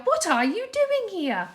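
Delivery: high, loud demand; yelling. A narrator's reading. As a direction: shout at the intruder. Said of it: "he yelled".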